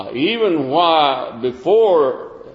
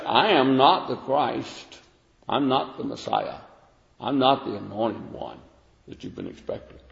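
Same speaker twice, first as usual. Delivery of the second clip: softer, fading to a whisper; humble denial; 2 semitones lower, 6 dB quieter than usual. Retold or imitated. John quietly denying he is the Messiah, fading out. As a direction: let it sink to a hush. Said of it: "and he confessed".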